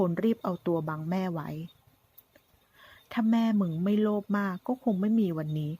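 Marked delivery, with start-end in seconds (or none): 1.6-5.7 slow, menacing sneer of a gunman; taunting villain. Acted. Gunman taunting the son about his mother, sneering menace. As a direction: lean on every insult like a cornered thug.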